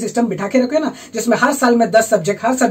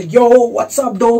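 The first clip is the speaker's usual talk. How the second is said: a hint of a hip, punched greeting; imitating cool kids saying hi; mock cool greeting; 3 dB louder than usual. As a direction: lightly mimic an English-speaking buddy's hello. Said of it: "करके नहीं मिलते थे".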